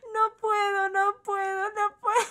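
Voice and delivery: high, strained, laughing whine; breaking up, unable to go on; crying with laughter. Real, not acted. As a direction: squeeze the words out between laughs. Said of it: "Estoy llorando".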